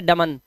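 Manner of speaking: डमन said with the N sounded, as written; wrong spelling pronunciation. Shown as a demonstration. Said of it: "इस word को डमन नहीं पढ़ते".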